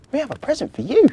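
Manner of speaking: high urgent call; calling girl. Acted. Victoria calls Marzi back, high. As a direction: stop her before she goes.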